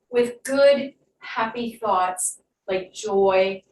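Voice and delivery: guided meditation. Acted. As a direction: ease them into calm breathing. Leads breathing and affirmations.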